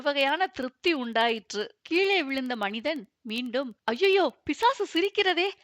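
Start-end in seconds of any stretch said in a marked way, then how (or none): 3.8-5.5 high, scared wailing; frightened wail. A narrator's reading. Fallen man scared of the laughing devil, frightened wail. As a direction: wail in fright with raised pitch. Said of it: "என்று அலறினான்".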